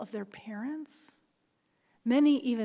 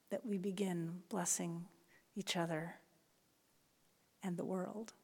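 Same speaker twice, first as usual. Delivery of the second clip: whispered; 5 semitones lower, 10 dB quieter than usual. Real, not acted. Sermon's quiet ending.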